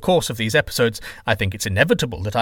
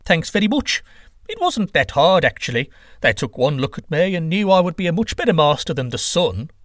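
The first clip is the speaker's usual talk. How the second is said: self-satisfied, puffed-up boasting; smug; 5 semitones higher than usual. Acted. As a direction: brag like you won easily. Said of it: "Quetzalcoatl replied smugly".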